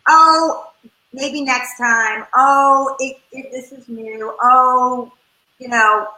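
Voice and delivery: brushing off the feelings with bright reassurance; a mock breezy parent, cheerful brush-off; dismissive parent. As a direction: parent waving away a disappointed kid's feelings, breezy. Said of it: "our reflex, right, is brush it away".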